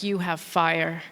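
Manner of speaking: low, slow, soft come-on; seductive Frenchman. Retold or imitated. Parisian man approaching a stranger, low and slow. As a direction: purr it like a smooth Parisian. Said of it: "He was like".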